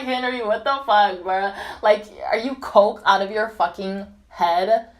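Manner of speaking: loud, incredulous retort; retold outburst. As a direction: act out an outraged comeback. Retells her shocked reply to Henry.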